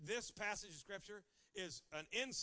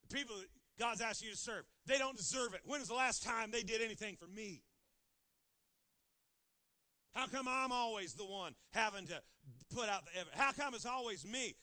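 complaining; 2 semitones higher, 5 dB louder than usual. Acted. Voices a believer complaining.

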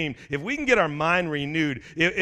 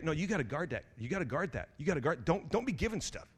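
hushed greedy voice; 9 dB quieter than usual. Pretend. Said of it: "it'll tell you".

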